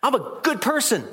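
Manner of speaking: high, smug "I'm a good person"; mock smug echo. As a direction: tease the self-righteous claim. Mocking echo of boast.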